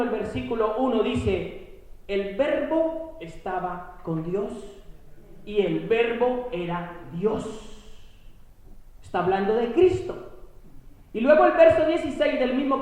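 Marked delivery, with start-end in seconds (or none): 2.1-7.4 slow, measured verse reading; scripture reading. Acted. Preacher quoting John to his congregation, slow and solemn. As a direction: read the verse slowly and solemnly.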